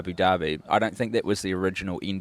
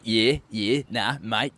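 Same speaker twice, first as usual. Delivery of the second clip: mock Aussie crowd; slower than usual. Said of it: "Australians are like".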